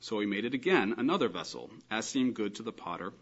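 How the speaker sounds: measured, solemn reading aloud; scripture reading. Acted. Lecturer reading Jeremiah eighteen aloud, measured reading. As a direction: read the verses out evenly, phrase by phrase.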